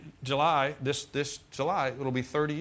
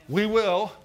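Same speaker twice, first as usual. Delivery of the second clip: emphatic; 7 semitones higher, 6 dB louder than usual. Real, not acted. Preacher declaring future promise.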